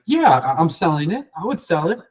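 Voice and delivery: light, perked-up eagerness; mildly engaged seller. Retold or imitated. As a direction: pitch climbing with interest. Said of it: "they're gonna get engaged and be like".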